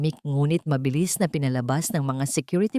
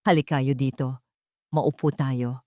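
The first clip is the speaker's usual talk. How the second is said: gentle; 4 semitones lower than usual. Acted. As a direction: call the children down gently. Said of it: "ang kanyang boses ay marahan".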